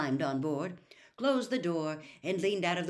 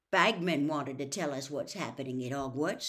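grumpy; 2 semitones lower than usual. Acted. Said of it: "said Grumpily".

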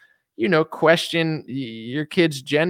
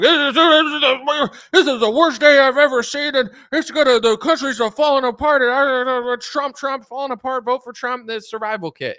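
much higher, louder frantic rant; panicking doomsayer; 10 semitones higher, 4 dB louder than usual. Acted. Mocking doom-news listeners as a high frantic panicker. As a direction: spiral into hysterical doom. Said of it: "really angry 'cause they're like".

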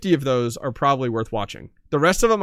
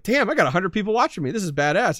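imitating excited streamer; 5 semitones higher than usual. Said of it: "you're like".

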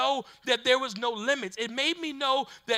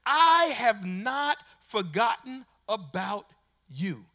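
slow, measured voice of God; a touch of God speaking to the listener; God's reassuring words; 3 semitones lower, slower than usual. Acted. Preacher voicing God, slow and deliberate.

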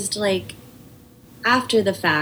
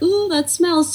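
joking ew; 10 semitones higher, 3 dB louder, slower than usual. Retold or imitated. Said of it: "to make a joke".

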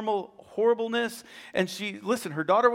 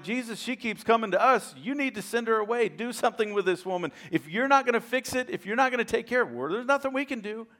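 fed-up followers pushing to send her away; irritated disciples; 5 semitones higher than usual. Retold or imitated. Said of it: "the disciples got irritated and they're like".

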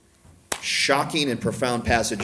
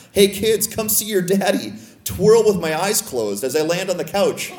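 playful call; 5 semitones higher than usual. Retold or imitated. Dad showing off to kids.

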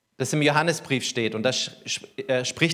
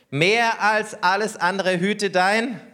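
slow solemn reading; 5 semitones higher, much slower than usual. Acted. Proverb read out solemnly.

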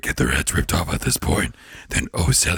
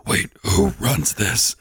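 Satan voice; 4 semitones higher, slower than usual. Retold or imitated. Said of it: "that voice".

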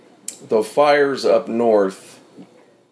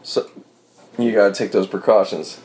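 with hiccups. Real, not acted. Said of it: "I'm sorry about the hiccups".

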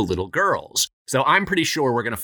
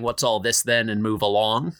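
lightly put-on British accent; hint of a British bobby accent. Host mimicking British cops walking around, mock British accent. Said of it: "That's my British accent".

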